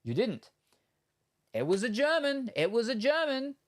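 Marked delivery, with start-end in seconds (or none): 1.5-2.5 mock German voice. Shown as a demonstration. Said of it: "there's definitely an accent". 2.6-3.6 a put-on German accent, pitched high. Shown as a demonstration. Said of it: "there's definitely an accent".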